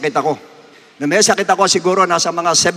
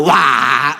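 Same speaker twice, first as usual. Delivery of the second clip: mock laugh; 4 semitones lower than usual. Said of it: "Sinabayan ko ng tawa".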